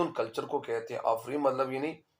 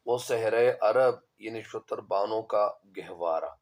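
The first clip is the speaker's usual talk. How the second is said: slow, deliberate verse reading; verse recitation; 3 semitones lower than usual. Acted. Teacher reading the verse to students, measured recitation. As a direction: read the couplet out slowly, word by word.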